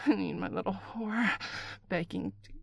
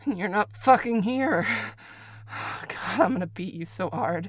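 angry outburst; 7 dB louder than usual. Acted. Caller angry the partner is absent, loud outburst.

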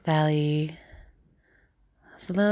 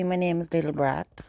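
Scottish accent. Shown as a demonstration. Showing how a Scot would say the name, Scottish accent. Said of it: "if I was from Scotland".

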